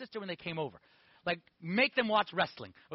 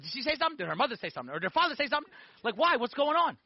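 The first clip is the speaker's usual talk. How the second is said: rapid worried questions, pitched up; panicked questions; 5 semitones higher, 3 dB louder, faster than usual. Retold or imitated. Young man grilling his priest in a panic. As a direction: fire off questions in alarm. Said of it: "I flipped out".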